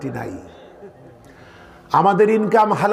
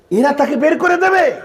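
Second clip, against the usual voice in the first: acted disbelief, pitched sharply higher; 9 semitones higher, 3 dB louder than usual. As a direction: voice the Prophet's incredulous question. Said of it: "তিনি বুঝতে পারছেন না".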